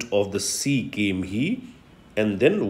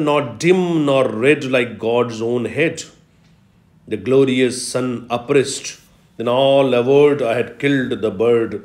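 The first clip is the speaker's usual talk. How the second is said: poem recitation. Acted. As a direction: read the stanza like a poem. Teacher recites the stanza.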